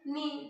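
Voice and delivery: "नी" said as nee, silent gh; pronunciation demo. Shown as a demonstration. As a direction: sound out "नी" as one long nee syllable. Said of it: "याचा उच्चार काय?".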